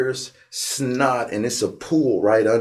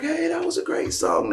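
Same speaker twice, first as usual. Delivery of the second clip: imitating cheery fans; 5 dB quieter than usual. Audience members praising him.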